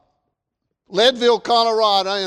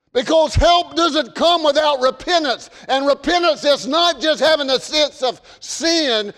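preaching; 7 semitones higher, 5 dB louder than usual. Acted. Pastor urging the church to repent, preaching hard. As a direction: hammer each line home from the pulpit.

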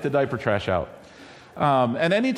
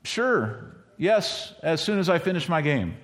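put-on lazy kid reply; 2 semitones higher than usual. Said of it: "And what was my reply?".

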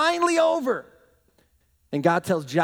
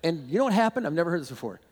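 ordinary talk, nothing marked

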